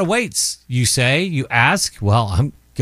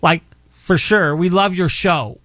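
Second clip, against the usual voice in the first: put-on Valley Girl; 3 semitones higher than usual. Host keeps up the Valley Girl bit for the listener. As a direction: stretch "sure" like a mall girl. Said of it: "Valley Girl thing".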